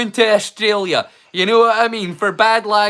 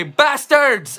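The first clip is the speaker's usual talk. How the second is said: higher crowd-style cheer inside an anthem; shouted cheer; 6 semitones higher than usual. Shown as a demonstration. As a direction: shout it out like the terrace response. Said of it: "the cheer is in the middle".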